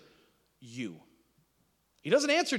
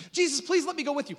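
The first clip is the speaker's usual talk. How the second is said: pleading man; 9 semitones higher, 5 dB louder than usual. Acted. Healed man begging to follow.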